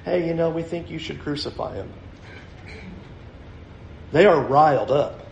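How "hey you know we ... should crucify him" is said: soft, offhand and easy; calm casual request. Retold or imitated. Preacher mocking a calm, polite crowd. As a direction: say it like a lazy suggestion. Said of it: "calmly going".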